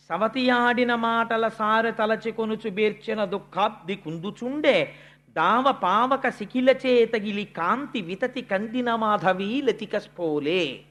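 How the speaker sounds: slow, measured poem recital; verse recitation. Acted. The preacher recites Suniti's grief in verse, slow and measured. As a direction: chant the verse slowly and gravely.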